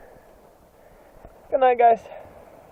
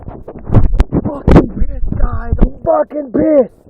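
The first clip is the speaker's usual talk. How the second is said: mock anger; slower than usual. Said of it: "Just joking".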